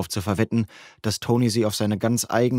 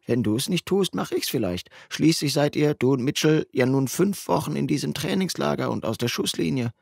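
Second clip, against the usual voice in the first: a touch higher, teasing mate; slightly lifted buddy voice, provoking; a hint of the cheeky friend; lightly voiced friend; 5 semitones higher than usual. Narrator voices friend Justin.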